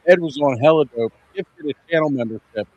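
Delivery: muffled underwater sound; like talking from under water. Real, not acted. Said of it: "he sounds like he's underwater".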